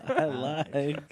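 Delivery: put-on Borat accent. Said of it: "He sounds more like Borat".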